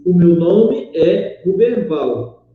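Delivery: slow, even statement falling at the end of "Ruberval"; declarative intonation. Shown as a demonstration. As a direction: simply state it, unhurried, closing down on "Ruberval". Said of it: "eu apenas estou declarando". (entoação declarativa, lenta, caindo em "Ruberval")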